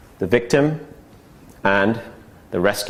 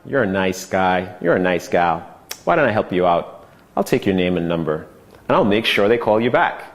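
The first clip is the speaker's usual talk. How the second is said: lower, gentle promise to help; soothing rescuer; 5 semitones lower than usual. Shown as a demonstration. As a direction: talk them down like a kindly helper. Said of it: "The rescuer is".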